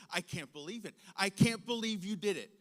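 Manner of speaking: mock outrage, building to a loud second sentence; retold angry mom. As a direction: imitate an appalled mother scolding her child. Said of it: "yells in such a way I had never heard her voice so shrill".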